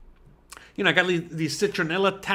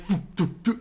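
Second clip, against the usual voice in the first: short puffed whooshes; puffing sound effect; imitated running puffs; 4 dB quieter than usual. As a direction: mimic hurried running with quick puffs. Imitating running after dog.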